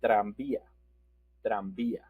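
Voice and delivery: "tranvía" with the v as b. Shown as a demonstration. Teacher shows no B and V difference, "tranvía" with b. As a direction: say "tranvía" like "trambía". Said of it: "when we use the B or B".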